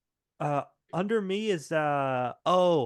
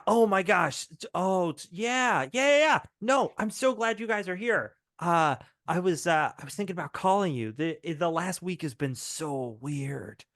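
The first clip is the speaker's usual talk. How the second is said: put-on excited kid voice; 3 semitones higher than usual.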